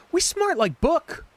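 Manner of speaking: high put-on caveman voice; a joking caveman grunt of pride; dumb caveman voice. Mocking their own smarts in a caveman voice. Mocking themselves after lore dump.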